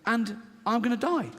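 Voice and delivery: high, mock breakdown; nearly crying. Traveller sure he will die on the plane, mock-tearful panic. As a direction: play it panicked, on the edge of tears. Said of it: "having a little breakdown and I'm nearly crying".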